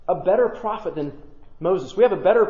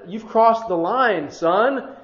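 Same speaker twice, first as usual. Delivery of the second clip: upset; 3 semitones higher, much slower than usual. Acted. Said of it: "He's upset".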